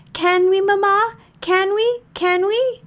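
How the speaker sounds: put-on high, eager child begging Mama; pleading children. A narrator's reading. Children pleading with their mother.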